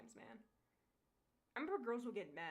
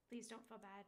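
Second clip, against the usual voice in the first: a hint of a gentle suitor, softer; lightly voiced tender Han; 7 dB quieter than usual. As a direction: soothe her softly, as the love interest.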